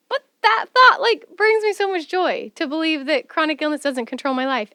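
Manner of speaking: high and loud burst of joy, then settling; excited. Retold or imitated. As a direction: burst out with delight. Her own joyful belief voiced.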